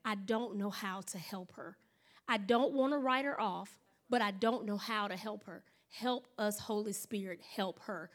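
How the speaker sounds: soft, low, earnest prayer; hushed sincere prayer; quiet prayer. Retold or imitated. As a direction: pray under your breath for help. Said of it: "he said".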